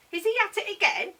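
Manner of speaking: loud, high-pitched neighbour's call. A narrator's reading. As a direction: call it sharply across the garden. Neighbour calls over his mowing.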